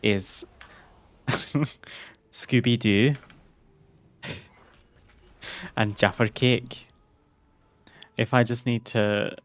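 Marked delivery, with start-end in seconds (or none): 2.3-6.9 a light Scottish lilt on Scooby-Doo and Jaffer Cake; test-drive the Scottish accent on these words; a hint of Scottish voice to warm up the accent; Scottish accent sample. Shown as a demonstration. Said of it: "for a Scottish accent for me".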